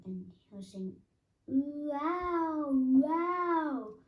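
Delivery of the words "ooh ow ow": high, loud ooh and ow; alarmed squeals. A narrator's reading. Piglet bounced all the way home, yelping high and loud. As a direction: yelp at every bounce.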